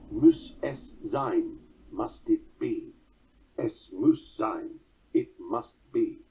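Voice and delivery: very slow, weighty quotation; deliberate question and answer. Shown as a demonstration. Lecturer quoting Beethoven's note in the score, deliberate and slow. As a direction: spell out each word slowly.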